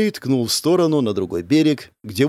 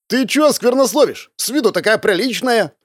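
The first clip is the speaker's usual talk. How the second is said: surprised; 9 semitones higher than usual. A narrator's reading. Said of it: "удивился Морок".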